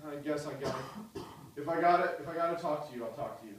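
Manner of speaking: mock bored, reluctant mumble trailing off; bored monotone. Preacher mocking a bored Jesus, flat reluctant mumble. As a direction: drag it out like you can't be bothered. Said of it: "Like he didn't speak in monotone".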